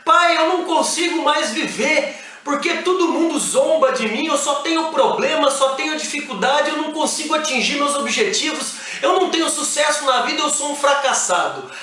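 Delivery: mock the son's complaint; upset teenage son. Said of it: "Porque ele chegou chorando".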